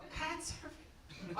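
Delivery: slow, drawn-out "Kite surfing?" in a strange voice; mocking echo. Airport officer echoing a traveller's answer, slow mocking disbelief. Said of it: "that's not how I was talking. That's how you get it".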